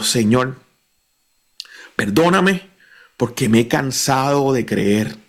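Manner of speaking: earnest, measured radio prayer; guided prayer. Acted. Preacher leading listeners in prayer, earnest and steady.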